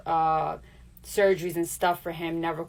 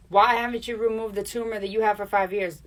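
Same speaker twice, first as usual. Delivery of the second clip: doctor's voice; 4 semitones higher, 5 dB louder than usual. Retold or imitated. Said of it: "the doctor said".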